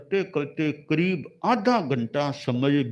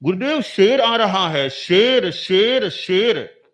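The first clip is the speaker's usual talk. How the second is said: loud urgent cry of alarm; alarmed warning; 2 semitones higher, 6 dB louder than usual. Acted. Disciple crying out to the meditating guru, alarmed and loud. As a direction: call out in fear that a lion is coming.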